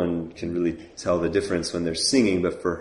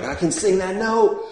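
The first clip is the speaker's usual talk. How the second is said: 略带调侃地高声说; mock confident claim; 13 semitones higher, 3 dB louder than usual. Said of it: "you're like".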